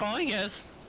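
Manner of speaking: a quick mock British oh, yes; half-hearted British accent on oh, yes. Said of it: "I can't do a British voice".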